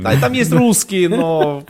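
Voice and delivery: put-on light Odessa accent, sing-song lilt; hint of an Odessa accent; odessa russian accent. Joking about Russians in Brooklyn. (лёгкий одесский говорок)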